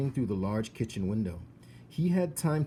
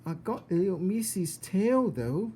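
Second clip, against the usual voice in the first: higher, pleased dim voice; proud simple girl; 9 semitones higher, 4 dB louder than usual. Acted. Mig showing Cook the tail, high and pleased. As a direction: offer it proudly.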